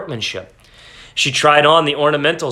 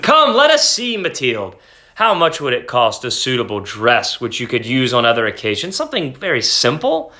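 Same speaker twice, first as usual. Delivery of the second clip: husband voice; 2 semitones lower than usual. Acted. Husband speaking, higher voice.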